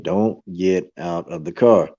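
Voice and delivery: slow, low mock voice of thunder; lightly voiced booming command. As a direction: deliver it slowly like a warning from above. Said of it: "the voice sounded like thunder".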